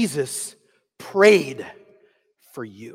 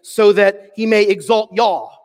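Texas y'all; 3 semitones higher, 5 dB louder, slower than usual. Shown as a demonstration. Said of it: "Texas translation".

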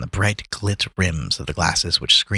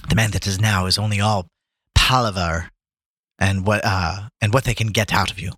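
bitter. Acted. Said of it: "said with great bitterness".

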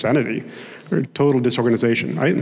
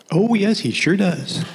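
put-on slow, higher young lady in an Oklahoma twang; young lady's voice; 7 semitones higher, slower than usual. Preacher voicing the lady agreeing, slow and higher, Oklahoma twang.

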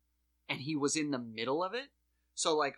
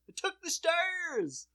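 deadpan rioter; slower than usual. Retold or imitated. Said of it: "And then somebody goes".

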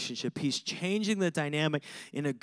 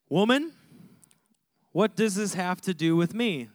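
curt son's reply; 2 semitones higher, 3 dB louder than usual. Retold or imitated. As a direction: bark "Woman" at his mother, then brush her off. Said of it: "He probably said it just like that".

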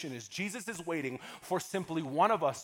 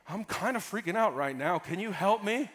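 casual prayer. Shown as a demonstration. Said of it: "Pastor's tips on how to pray".

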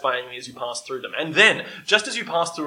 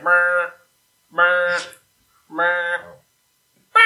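race start beeps; much slower than usual. Retold or imitated. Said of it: "race start thing where it's like".

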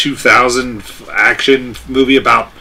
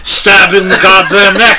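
put-on English accent; 6 semitones higher, 4 dB louder, slower than usual. British bit, laughing.

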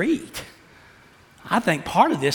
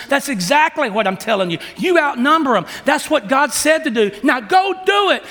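higher and louder, building to an order; commanding Joshua; 8 semitones higher, 3 dB louder than usual. Acted. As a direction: Joshua ordering the tribe forward. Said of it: "And Joshua says".

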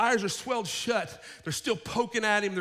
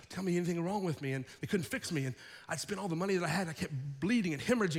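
lower, softened voice of a woman testifying; hushed testimony; 4 semitones lower, 5 dB quieter, faster than usual. Acted. Healed woman telling a man about Jesus, hushed testimony. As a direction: recount it quietly, as a personal witness.

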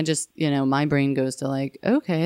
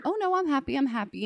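mock forced cheer; 9 semitones higher than usual. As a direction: cover frustration with fake cheer. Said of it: "And I would wanna say".

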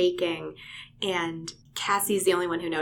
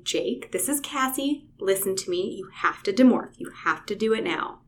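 calm and firm. Retold or imitated. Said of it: "very calmly and firmly saying".

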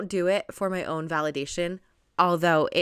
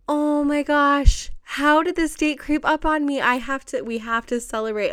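real amazed disbelief; 8 semitones higher, 5 dB louder than usual. Real, not acted. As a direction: marvel at a date that caught you unawares. Amazed the anniversary crept up.

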